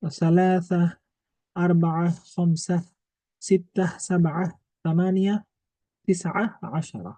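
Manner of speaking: সালাসা, আরবাআ, খামসা said clipped, ending without the -তুন; short number forms. Shown as a demonstration. Teacher showing students the short Arabic numbers, said slowly. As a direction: drop the ending, say সিত্তা, সাবআ, সামানিয়া slowly and clearly. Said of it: "ওয়াহিদুনকে ওয়াহিদ বলতে পারবেন".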